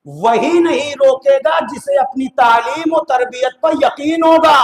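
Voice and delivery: slow, emphatic sermon declamation; rhetorical preaching. Real, not acted. Preacher assuring the congregation about children's upbringing, emphatic declamation.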